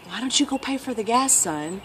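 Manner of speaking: soft, casual retelling of Dad; dad's gentle request. Retold or imitated. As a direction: quote a father asking softly.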